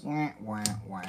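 soft, low sad-trombone wah wah wah; mock the letdown with a deflating wah wah. Sad trombone after bad card.

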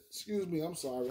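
quiet apology after a hiccup. Real, not acted. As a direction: hiccup then soft excuse me. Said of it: "I'm hiccuping and shit".

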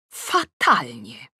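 blunt verdict. Acted. Mother judges daughter's look.

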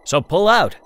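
captain calling out to the pilot. Acted. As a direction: call it out from across the flight deck. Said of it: "Jason called from his chair".

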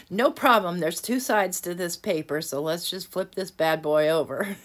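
cheerful fix after the blunder; cheerful recovery. Real, not acted. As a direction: bounce right back, undaunted.

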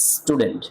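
স্টুডেন্ট opening on a clear S sound; initial S sound. Shown as a demonstration. Teacher showing the first sound, স্টুডেন্ট with a clear initial S. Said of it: "স উচ্চারণ হয়েছে".

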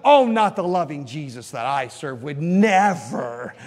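mock-pious objection, drawn out; put-on indignant believer; mock protest. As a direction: imitate scandalized churchgoers, stretching the key words. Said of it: "now a lot of people".

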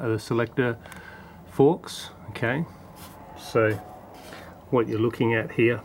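talking while on his back under the car; strained voice from lying under a car. Real, not acted. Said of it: "Okay, so I'm under the car now".

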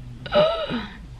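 high mock-tearful gasp; retold crying gasp. Mom re-enacting crying at the grocery store, high gasp. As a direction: gasp high, imitating being overcome. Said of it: "so I was crying".

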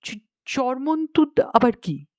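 stammered, puzzled question; mildly astonished. Acted. Astonished author asking Gangaram about the odd word, mildly baffled. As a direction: stumble on the strange word, baffled. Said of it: "আমি তো বিস্মিত".

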